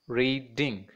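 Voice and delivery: "Reading" split into two beats; syllable by syllable. Shown as a demonstration. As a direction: say "Reading" as read, ding with a gap. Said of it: "the word reading has two syllables".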